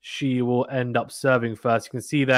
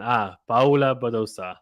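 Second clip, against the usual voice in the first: put-on Spanish accent. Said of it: "he says in a Spanish accent".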